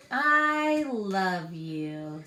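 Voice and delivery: put-on slow, drawn-out loving toddler line; little Max. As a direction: stretch it out sweetly. Max's line in the story.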